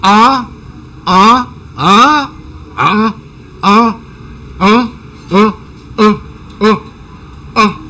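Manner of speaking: put-on clipped "ah" grunts, kid brushing off mom; annoyed teen.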